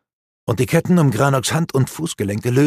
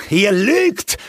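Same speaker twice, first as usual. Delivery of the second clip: higher, louder furious accusation; dwarf warrior snapping back in anger; angry snap; 10 semitones higher, 4 dB louder than usual. Acted. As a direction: hurl it at him in rage. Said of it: "herrschte Granok ihn an".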